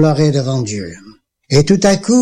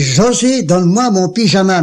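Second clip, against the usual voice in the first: stronger voice; 3 semitones higher than usual. Retold or imitated. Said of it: "mais d'une voix plus forte".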